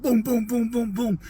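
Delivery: soft rhythmic booms for a heartbeat; imitated pounding heartbeat. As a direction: mimic a racing heart with booms. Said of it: "my heart just went".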